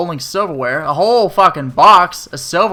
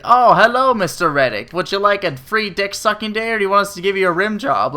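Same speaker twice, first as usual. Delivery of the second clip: lightly voiced, overly sweet waitress, higher; mock fawning server; 4 semitones higher than usual. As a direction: play a gushing, too-eager server. Imagined fawning server greeting.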